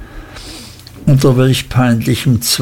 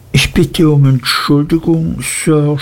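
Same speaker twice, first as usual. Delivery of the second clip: timid, a touch higher, faltering; stammering apology; 3 semitones higher than usual. A narrator's reading. Scared boy apologising to his stepfather, hesitant and faltering. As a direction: get the apology out nervously. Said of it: "stotterte ich".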